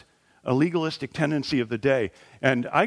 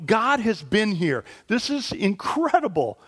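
mock amazed crowd; 6 semitones higher, slower than usual. Imagined crowd praising God.

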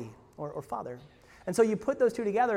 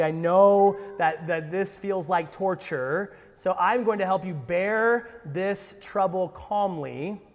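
put-on slow, patient parent coaxing a child; soothing parent; slower than usual. Parent soothing a scared child at the dentist, mildly mock calm. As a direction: talk a crying child down slowly. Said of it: "You say".

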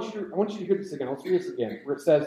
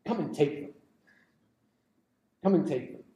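low, soft, understated defiance; Spartan one-liner; 3 semitones lower, 5 dB quieter than usual. Retold or imitated. Spartans answering the Persian king, low understated defiance. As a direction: deliver it low and quiet, letting it land. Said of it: "the Spartans say two words".

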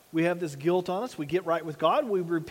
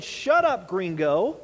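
irritated pilot; 4 dB louder, slower than usual. Retold or imitated. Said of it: "the pilot was so irritated".

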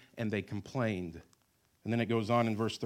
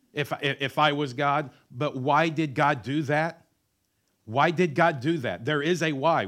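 building sermon; 4 semitones higher, 8 dB louder, slower than usual. Acted. Preaching at full force.

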